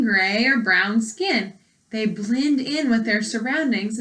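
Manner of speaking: clear, even read-aloud voice for a class; reading to children. Acted. Teacher reading a frog book to her class, clear read-aloud.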